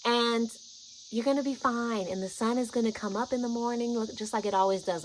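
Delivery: tender, measured reassurance; speaking love. Retold or imitated. Guide explaining the trip to a scared friend, loving calm. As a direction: calmly talk them through the fear. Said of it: "I'm speaking in this tone".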